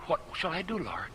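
quiet plea. Retold or imitated. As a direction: barely whisper it to God. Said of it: "I pleaded with God".

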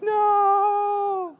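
high, squealing mock-horrified no; a sudden high yelp of denial; hammed-up terror at the verdict; mock panic. Pretend self hearing guilty verdict.

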